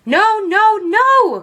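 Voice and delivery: high, loud protest; a dismayed mother crying out. A narrator's reading. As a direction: cry out in alarm. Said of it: "cried Mama".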